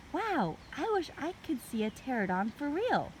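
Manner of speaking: put-on high, eager little girl; bright childlike voice. A narrator's reading.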